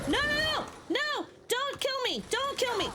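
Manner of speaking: high frantic no no no; panicked pleading. Real, not acted. Being killed in game.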